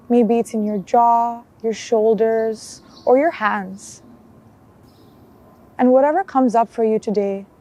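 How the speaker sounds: calm guided body scan with long pauses; unhurried mindfulness guide, even and measured; guided meditation. Acted. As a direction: lead them gently through a check-in, leaving space between phrases.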